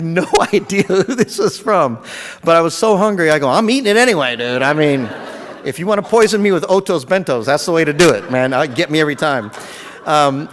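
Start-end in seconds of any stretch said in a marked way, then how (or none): 3.5-9.5 louder, laughing and carefree; laughing defiance. Retold or imitated. Too hungry to care who sent the food, louder and laughing. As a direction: shrug it off with a laugh.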